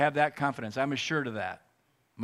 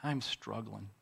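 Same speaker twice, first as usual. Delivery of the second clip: retold yell; 7 dB quieter, much slower than usual. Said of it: "And I yelled out".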